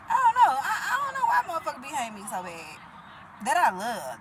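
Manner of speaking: real tears, first burst loud then sobbing; crying. Real, not acted. Breaks down over being hated.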